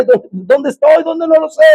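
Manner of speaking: halting, rising pitch, lost and helpless; fearful blind man. Acted. Preacher acts blind Saulo being led by the hand, fearful bewilderment. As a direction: stammer as if groping in the dark. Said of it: "ahora es un hombre temblando, temeroso, ciego".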